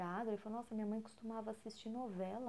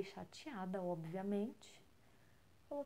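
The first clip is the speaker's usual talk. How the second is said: ordinary talk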